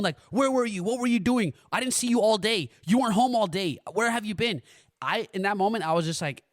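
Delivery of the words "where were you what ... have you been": mildly accusing parent's questioning, a little raised; retold parental grilling; interrogating tone. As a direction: imitate mom firing off questions. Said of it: "In that tone".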